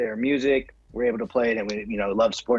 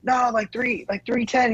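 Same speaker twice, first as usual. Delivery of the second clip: modest gym guy; 8 semitones higher, slower than usual. Retold or imitated. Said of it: "He was like".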